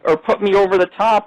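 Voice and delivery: high mocking imitation of her; mocking the rude woman who wrote the ad. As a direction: mimic her snooty complaint, pitched high. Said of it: "She said".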